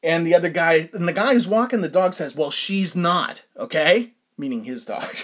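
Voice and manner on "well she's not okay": slow, mildly annoyed retort; mock annoyed neighbor. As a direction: drag it out like a grumpy stranger. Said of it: "it was obvious he was annoyed".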